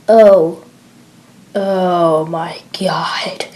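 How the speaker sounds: breathless whispered dread; horrified whisper. Acted. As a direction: barely breathe the words out in shock. Horrified soldier in dark hold.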